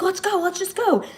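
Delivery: imitating a high-pitched, panicked plea to get out; retold panicked scream. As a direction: squeal it high like a scared girl in a horror movie. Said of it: "And she starts screaming".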